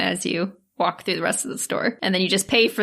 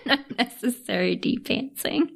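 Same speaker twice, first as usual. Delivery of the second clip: words breaking up with laughter; laughing; 3 semitones higher than usual. Real, not acted. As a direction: repeat it through giggles. Cracking up at the phrase.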